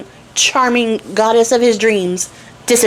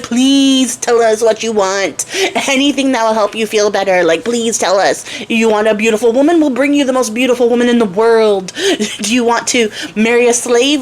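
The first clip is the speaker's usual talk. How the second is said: pleading mother. Retold or imitated. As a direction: beg your son to live, stretching every word. Queen begs dying son.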